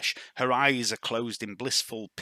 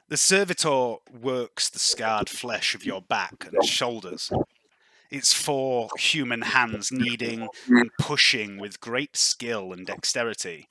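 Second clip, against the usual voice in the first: slow, deliberate scene-setting; game master narration; slower than usual. Acted. Game master describing a servitor's massage to the player, slow narration. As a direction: draw out each phrase with measured pauses.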